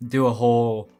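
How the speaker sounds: speech muffled by a retainer; talking with a retainer in; wearing a retainer. Real, not acted. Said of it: "I have my retainer in right now".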